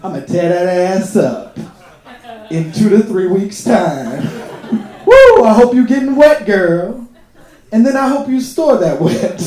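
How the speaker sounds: mock seduction over the phone, with laughs; seductive phone talk.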